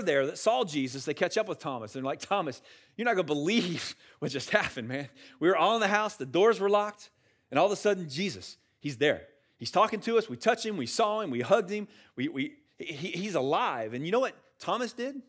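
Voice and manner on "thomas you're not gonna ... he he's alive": acted breathless-with-news excitement, tripping over words; pitched-up, insistent eyewitness gush; excited news-breaking. Disciples telling Thomas that Jesus is alive, excited.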